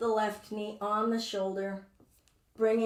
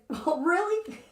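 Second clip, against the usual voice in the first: higher, sassy doubtful knee; 9 semitones higher, 4 dB louder than usual. Pretend. Teacher voicing her own knee, sassy and doubtful. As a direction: voice the knee as a sceptical diva. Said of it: "And this knee said".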